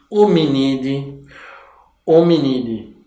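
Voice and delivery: Hominide with the ending said "dee"; pronúncia latina. Shown as a demonstration. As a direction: say Hominide with no "ai" at the end. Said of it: "em latim a gente pronuncia D". (Hominide com final "di", à latina)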